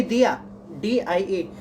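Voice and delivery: दिया then डीआईए said slowly, letter by letter; slow spelled-out mnemonic. Shown as a demonstration. Teacher to students spelling the mnemonic, slowly. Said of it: "मस्का, मस्की".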